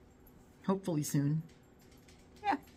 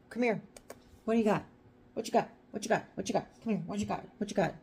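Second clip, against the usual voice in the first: higher-pitched, quick repeated pet talk; coaxing the dog; 5 semitones higher, faster than usual. Real, not acted. Owner asks the dog what it has got, coaxing. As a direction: pester a pup to give it up.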